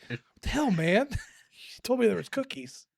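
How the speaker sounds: high, loud, laughing complaint; laughing at being tricked over cookies; mock betrayal. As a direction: feign outrage about missing cookies.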